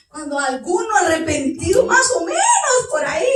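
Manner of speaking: loud tearful preaching; real tears breaking into the sermon; crying out. Real, not acted. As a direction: weep it out loud. Preacher weeping loudly.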